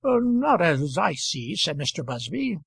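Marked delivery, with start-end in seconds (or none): 0.0-1.5 slow, hesitant and unsure; nervous young man. Acted. Young Busby dragged into the quarrel, slow and hesitant. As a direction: answer timidly, wishing you weren't asked. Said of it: "somewhat nervous at being thus brought".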